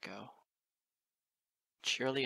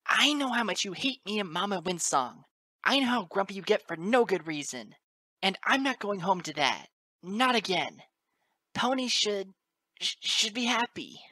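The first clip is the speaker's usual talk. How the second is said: high, loud tearful colt; whimpering yell; 9 semitones higher, 9 dB louder than usual. A narrator's reading. Colt confronting his grumpy father, high whimpering yell. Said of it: "He whimpered and yelled at the same time".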